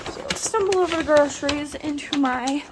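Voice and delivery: lightly put-on Russian accent; a hint of mock Russian accent. Vlogger jokingly introducing her pantry in a slight mock Russian accent. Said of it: "why I said that with a Russian accent".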